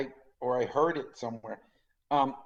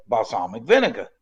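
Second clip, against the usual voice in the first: put-on Italian accent; 3 semitones lower, 6 dB louder than usual. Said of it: "And he said".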